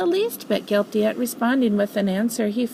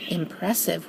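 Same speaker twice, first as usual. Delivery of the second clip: whistled; 3 semitones lower, 5 dB quieter than usual. Acted. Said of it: "whistled Gopher".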